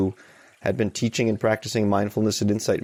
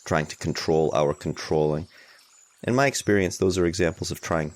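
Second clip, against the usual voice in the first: unhurried guidance with long pauses; guided meditation. Real, not acted. Teacher guiding a group to allow tension, unhurried guided meditation. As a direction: ease listeners into it, leaving space between phrases.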